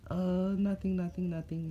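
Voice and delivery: high-pitched hasty denial; nervous backpedal. Acted. Kid caught teasing the big fox, nervous backpedal.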